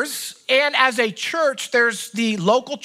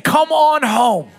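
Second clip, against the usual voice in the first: pleading call; 3 semitones higher, 5 dB louder, slower than usual. Acted. God's call to those running away.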